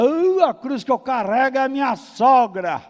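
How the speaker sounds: loud, high, hammed-up complaint; exasperated mock wail. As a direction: cry out in comic despair from a drawn "Ah". Queixa exagerada sobre a sogra. (lamento exagerado, alto e agudo)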